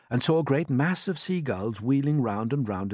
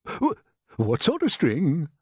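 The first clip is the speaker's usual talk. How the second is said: higher, slow and pointed query; sharp question; 6 semitones higher, 4 dB louder, slower than usual. A narrator's reading. Old grasshopper questioning James about string, sharply. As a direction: put the question sharply, drawing it out. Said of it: "asked the old green grasshopper sharply".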